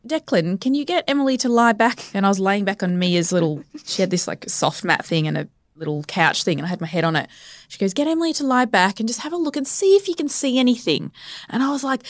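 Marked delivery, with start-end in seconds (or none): 0.1-2.0 lightly voiced composed operator, pitch lifted; calm dispatcher. Ambulance operator instructing partner by phone, imitated calm. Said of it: "she's really calm". 7.9-11.1 higher, lightly imitated operator voice; calm dispatcher. Ambulance lady asks partner to check, imitated calm. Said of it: "she's really calm".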